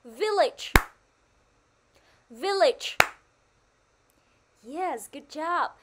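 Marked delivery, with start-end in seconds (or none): 0.0-0.7 "Village" punched high and loud on the first syllable; stress on first syllable. Shown as a demonstration. Teacher leading the class in repeating, strongly stressed "Village". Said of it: "nhấn mạnh vào âm tiết thứ nhất". 2.3-3.0 "Village" punched high and loud on the first syllable; stress on first syllable. Shown as a demonstration. Teacher leading the class in repeating, strongly stressed "Village". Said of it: "nhấn mạnh vào âm tiết thứ nhất".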